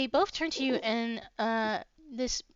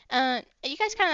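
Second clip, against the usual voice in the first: ordinary delivery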